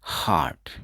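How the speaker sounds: हार्ट said as "haat", no r sound; हार्ट with the r dropped, short clear vowel; silent r demo. Shown as a demonstration. Teacher showing students हार्ट with silent r. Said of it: "तो आर हमेशा silent रहेगा".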